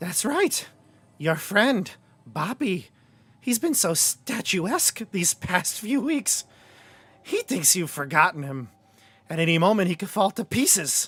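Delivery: high-pitched hag voice. Voicing a second hag taunting the party about a friend: second hag voice. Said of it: "The voice changes".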